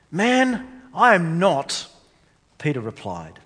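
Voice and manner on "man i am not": loud, higher protest; emphatic denial. Retold or imitated. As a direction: deny it hard and fast. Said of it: "Peter emphatically denies Jesus".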